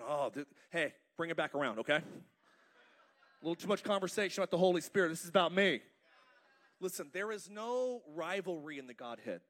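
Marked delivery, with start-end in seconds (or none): 0.0-5.8 louder playful mock jealousy with a laugh; hammed-up demand for attention; Jesus pretending to crave attention, lightly hammed; mock self-centered. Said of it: "Jesus isn't going".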